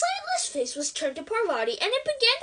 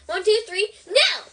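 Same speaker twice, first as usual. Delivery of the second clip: counting down; 4 semitones higher, 5 dB louder than usual. A narrator's reading. Lupin counts down to open wardrobe.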